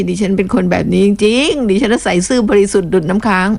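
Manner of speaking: straight-faced mock insistence; mock sincere. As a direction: pretend to swear it's true.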